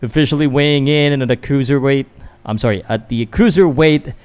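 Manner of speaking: practising introducing the blue corner fighter; mock ring announcer. Vlogger practising the fighter introduction as a light ring announcer. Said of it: "trying to practice".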